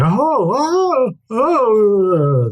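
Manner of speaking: high, shocked gasping oh; gasping crowd. A narrator's reading. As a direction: gasp it out in alarm. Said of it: "everyone that's in the room kinda gasps".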